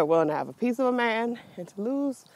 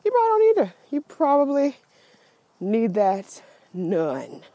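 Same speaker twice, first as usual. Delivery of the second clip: retold advice; 5 dB louder than usual. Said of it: "I said".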